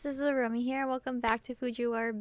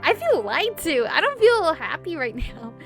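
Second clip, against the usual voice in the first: mock complaint; 4 semitones higher, 8 dB louder than usual. Reader's mock complaint amid narration.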